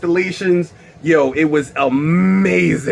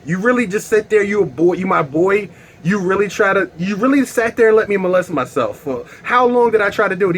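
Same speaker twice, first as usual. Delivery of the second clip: indignant disbelief; 4 semitones higher than usual. Acted. Confronts friend who watched him.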